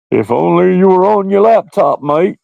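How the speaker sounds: put-on a light Australian accent on a friend's voice. Imitating Jack's voice in a slight Australian accent. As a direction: do your mate Jack in a loose Australian accent. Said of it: "made him sound like an Australian".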